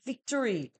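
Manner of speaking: "Victory" stressed, set apart as its own word; emphasized victory. Shown as a demonstration. Tarot reader stresses victory for Gemini, emphatic. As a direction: lean on "Victory" and give it weight. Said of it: "I need to emphasize that word victory".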